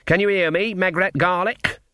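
high, insistent check; calling to her. A narrator's reading. Witch calls to dazed companion.

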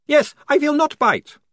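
very high and loud, cheery vampire voice; cheerful vampire. A narrator's reading. Otto cheerfully promises Polly he won't bite, high vampire voice. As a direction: reassure her brightly in a strange high vampire voice. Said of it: "said the face cheerfully".

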